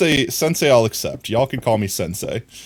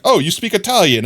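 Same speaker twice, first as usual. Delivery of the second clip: higher, louder quoted officer; mock German officer; 8 semitones higher, 5 dB louder than usual. Retelling a movie scene, voicing the officer higher. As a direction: play the smug officer, pitched up. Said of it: "the German guy comes up and is like".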